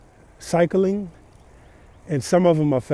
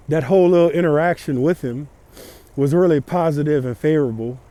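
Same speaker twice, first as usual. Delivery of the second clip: muffled. Real, not acted. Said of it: "if I sound muffled, it's because I'm wearing a balaclava".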